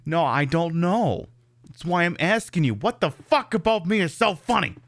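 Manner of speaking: Joe Pesci. Acted. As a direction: demand an answer as an offended gangster. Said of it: "Joe Pesci's like".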